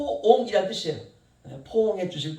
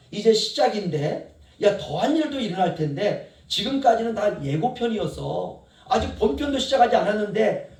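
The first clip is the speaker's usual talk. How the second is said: louder, brusque, teasing scolding; God's blunt reply; 4 dB louder than usual. Acted. Preacher voicing God brushing off Habakkuk's complaint, brusque and loud. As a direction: shake Habakkuk up with tough love. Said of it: "하나님이 이렇게 말합니다".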